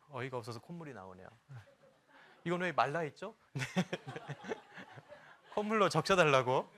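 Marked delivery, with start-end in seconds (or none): 2.4-6.7 loud, laughing punchline; amused, raised voice breaking into laughs; laughing joke. Real, not acted. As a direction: blurt it out through laughter. Joking about his runny nose.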